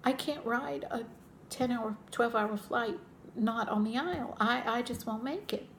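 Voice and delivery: imitating her own teary pleading; retold tearful plea. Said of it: "I almost cried".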